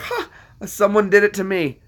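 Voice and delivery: high-pitched mock astonishment; acted surprise. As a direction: react as if pleasantly caught out. Acts out own surprised reaction.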